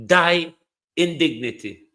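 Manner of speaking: "Die" punched loud, then falling "in dignity"; loud mock quote of the PM. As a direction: hurl the PM's words back with contempt. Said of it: "said the Prime Minister".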